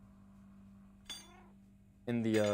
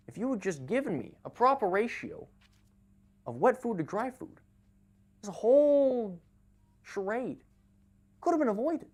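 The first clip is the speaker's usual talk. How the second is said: higher, menacing cat villain scolding granny; villain monologue; 9 semitones higher than usual. Pretend. Cat lecturing grandmother about wet food, gloating villain. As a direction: gloat like a spoiled cat who got revenge.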